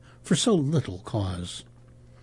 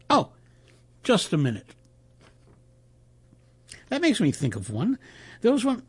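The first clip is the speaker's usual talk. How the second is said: lightly voiced reporter, higher animated storytelling; Reuters man telling a joke; 5 semitones higher than usual. Reporter telling colleagues a Martian joke, lightly animated. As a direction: spin out a joke with relish.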